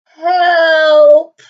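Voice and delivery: loud shout for help; cry for help. Acted. Child stuck on monkey bars, shouting for help from afar. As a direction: call out for help from across the playground. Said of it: "cried a child off in the distance".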